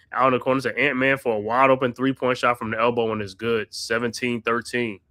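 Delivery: steady courtside play-by-play, naming each pass; play-by-play call. Acted. Fan calling the game for his co-host, play-by-play. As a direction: narrate the action like a broadcaster.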